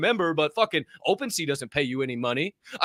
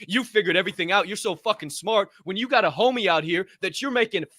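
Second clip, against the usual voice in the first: heated rant pitched higher; fired up; 4 semitones higher than usual. Real, not acted. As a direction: call out the know-it-all on camera. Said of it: "I'm sorry I'm fired up".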